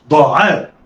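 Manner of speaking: "ضاعاء" joined in one quick go; snatch "ضاعاء" with no pause; snatched together. Shown as a demonstration. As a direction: blend "ضاعاء" like one word. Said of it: "دي طريقة الخطف".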